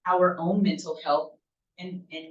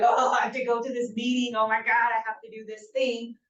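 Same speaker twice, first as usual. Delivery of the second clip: grumbling, put-on whine with raised pitch at first; mock whining; 4 semitones higher than usual. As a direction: whine it like a reluctant worker. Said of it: "I'm grumbling and crying and whining like".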